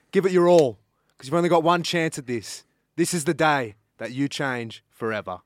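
earnest, punchy speech with slowed key lines; motivational speech. Acted. Guest giving a motivational speech to listeners, earnest and punchy. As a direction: inspire them to change today. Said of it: "motivational speech".

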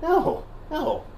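high squeaky voice through laughter; laughing high voice. Retold or imitated. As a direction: giggle out the high voice.

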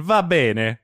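lightly shown-off Italian accent; Italian pronunciation. Shown as a demonstration. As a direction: say it with a touch of Italian flourish. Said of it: "as we say in Italian".

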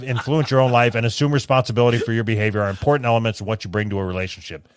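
lightly put-on therapist tone; mock self-help read. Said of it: "men don't fucking talk like this".

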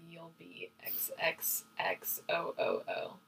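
tender whispered sign-off. Real, not acted. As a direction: breathe the last words as a whisper. Reading letter's tender ending.

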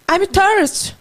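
broken tourist English. Retold or imitated. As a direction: insist in Brazilian-accented English. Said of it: "Falei pra ela".

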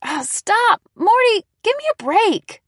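high, loud laughing complaint; laughing protest. A narrator's reading. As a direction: giggle while telling the dog off. Pushing off licking dog.

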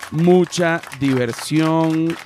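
presentador animado. Acted. Hosts upbeat show intro.

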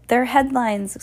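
slow, high mild screech. A narrator's reading. Geraldine screeches from the crowd, slow high cry. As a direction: draw it out high. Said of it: "screeched Geraldine".

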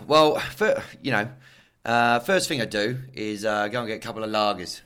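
hammed-up English accent of a banter-loving supporter; English fan accent. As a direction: do a lager-loving English cricket fan's accent. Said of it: "generic Nuffy England shit banter fan".

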